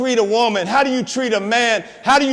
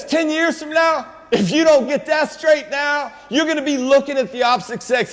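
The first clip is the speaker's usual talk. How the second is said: urgent warning; 4 semitones higher than usual. Real, not acted. Urging students about their future.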